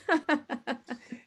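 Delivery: light pleased laugh, falling away; soft real chuckle; short laugh. Real, not acted. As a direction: laugh at yourself for beating the clock. Laughs after keeping it short.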